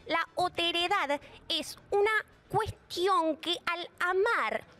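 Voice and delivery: nasal, feminine, slow and exaggerated. Shown as a demonstration. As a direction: speak through the nose with big emphasis. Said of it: "Voz nasal, femenina".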